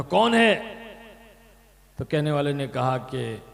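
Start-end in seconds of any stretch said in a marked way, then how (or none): 0.0-0.5 shouted call. Retold or imitated. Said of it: "चिल्ला करके पूछा".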